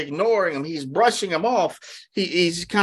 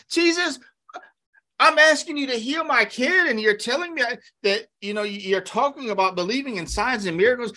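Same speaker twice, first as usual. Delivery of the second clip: a pleading, indignant father pitched much higher; mock angry parent; 7 semitones higher than usual. A desperate father confronts Jesus in mock anger. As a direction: let him snap back at Jesus, upset. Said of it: "They'd get mad".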